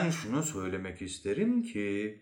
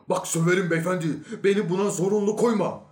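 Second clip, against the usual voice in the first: loud, high-pitched threat; angry warning; 7 semitones higher, 5 dB louder, faster than usual. Acted. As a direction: warn him off with raised voice. Man warns his challenger angrily.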